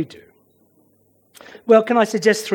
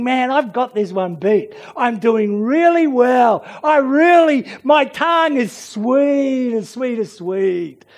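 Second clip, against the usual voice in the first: self-congratulation; 4 semitones higher than usual. Acted. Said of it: "you're just chugging away and think".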